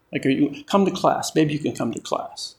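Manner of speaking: offhand, shrugging, take-it-or-leave-it; casual invitation. Retold or imitated. Preacher mocking a weak invitation to church, offhand and casual. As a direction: make it sound optional and lazy. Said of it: "doesn't leave much room for".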